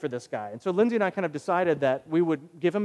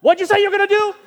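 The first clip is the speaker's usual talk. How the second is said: much higher, loud mock disbelief; incredulous tough guy; 11 dB louder than usual. Aggressive stranger hearing the prayer offer, loud incredulous squawk. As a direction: squawk it back like he can't believe it. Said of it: "he was like".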